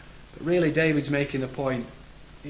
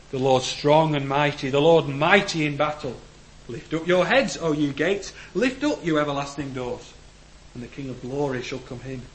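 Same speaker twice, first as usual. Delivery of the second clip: psalm proclaimed; 4 dB louder than usual. Acted. Psalm read with force.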